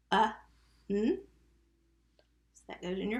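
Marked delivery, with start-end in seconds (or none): 0.1-1.2 "Uh, n" as two isolated sounds; sounded out. Shown as a demonstration. Teacher breaking down the first syllable, sounded out. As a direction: separate the vowel from the n in "Uh, n". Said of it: "What's the first syllable?".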